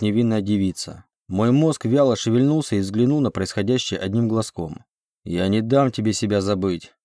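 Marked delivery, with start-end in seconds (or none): none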